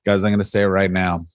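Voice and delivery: low, grumbling celebrity rant; mock whiny celebrity. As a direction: complain like an entitled mid-level star. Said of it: "other times it's like".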